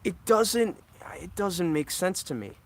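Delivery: real anger, pushed up and loud; getting angry. Real, not acted. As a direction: vent at the dying camera, voice rising hard. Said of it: "Sorry I'm getting angry".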